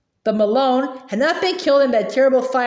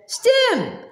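short, high-pitched squeal; small child's shriek; 11 semitones higher than usual. A narrator's reading. Baby sister shrieking at her aunt, high squeal. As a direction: squeal it high, without much volume. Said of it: "Sonny shrieked".

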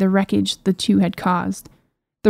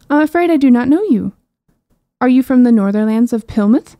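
put-on higher, louder and regal, a proud young princess; 3 semitones higher, 4 dB louder than usual. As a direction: play the haughty maiden calling from her cage. Princess questions the knight.

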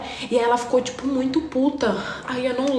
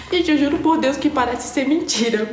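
laughing while talking; 5 semitones higher than usual. Real, not acted.

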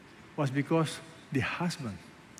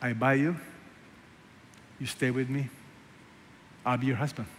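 softer, gentle promise; tender husband; 2 semitones lower, 5 dB quieter, faster than usual. Pretend. Hosea tenderly to Gomer, soft and loving. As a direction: say it like a husband taking her back. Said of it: "No, no".

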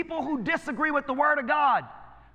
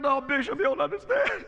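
mock whining. Imitating crying congregant.

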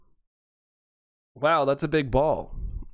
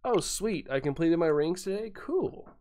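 mock casual inner voice; 3 semitones higher, 5 dB quieter than usual. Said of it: "I'm just like".

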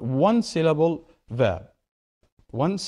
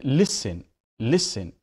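listen with the stress on LIS; stress on first syllable; slower than usual. Shown as a demonstration. Teacher showing students word stress, "listen" stressed on LIS. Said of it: "I'm stressing the first syllable".

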